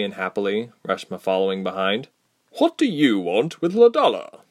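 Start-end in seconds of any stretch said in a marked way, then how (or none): 2.5-4.4 a high, stern demand from a stranger; sternly. Acted. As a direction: challenge them, a hint of sternness. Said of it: "a voice asked sternly".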